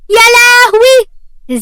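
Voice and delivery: high, loud, drawn-out cry of alarm; shocked wail. Acted. Khuloud crying out in alarm at Zain, high shocked wail.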